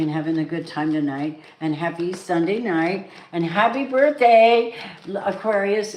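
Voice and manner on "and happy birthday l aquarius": excited birthday greeting. Real, not acted. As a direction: sing out the birthday wish.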